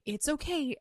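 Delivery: softly voiced consolation; retold reassurance. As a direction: imitate someone soothing a crier. Retelling man comforting her as she cried.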